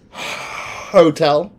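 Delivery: hotel drawn out with a sigh and rising end; sigh, then a lazy rising hotel; mock American hotel. Brit mocks how Americans say hotel, drawn out. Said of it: "you're like".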